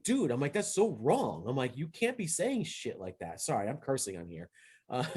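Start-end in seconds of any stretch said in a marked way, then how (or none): 0.0-1.4 retold indignant objection, pitched up high; indignant protest. Player telling off a racist referee, indignant. 1.8-3.4 slow, high-pitched retold reproach; indignant scolding. Team captain scolding referee over a racist remark, indignant. Retelling his protest to referee.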